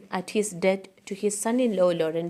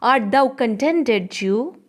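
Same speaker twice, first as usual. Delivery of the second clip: reading Portia; 3 semitones higher, 5 dB louder than usual. Acted. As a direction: read Portia's question with a little lift. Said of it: "To this Portia says".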